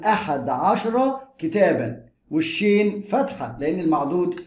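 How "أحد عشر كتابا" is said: slow dictation of the answer; slow model phrase. Shown as a demonstration. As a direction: lay out أحد عشر كتابا slowly, word by word. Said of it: "teacher models the full phrase".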